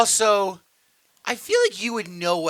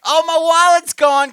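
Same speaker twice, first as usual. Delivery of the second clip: high, loud mock-panicked cry; imitated high-pitched yell; mock scream; 12 semitones higher, 13 dB louder than usual. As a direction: scream it like a hammed-up alarm. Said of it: "I didn't wanna scream like".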